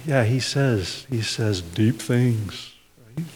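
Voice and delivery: muttering, half-baffled, to each other; puzzled disciples. Retold or imitated. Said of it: "I can imagine them looking at each other and saying".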